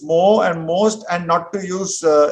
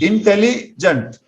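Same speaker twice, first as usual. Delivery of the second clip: syllable by syllable; 3 semitones higher, slower than usual. Shown as a demonstration. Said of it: "two syllables".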